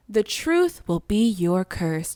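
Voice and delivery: slow, ominous witch line; a hint of a cursing witch; ominous Sarah Fier. Shown as a demonstration. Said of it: "Do I sound like Sarah Fier?".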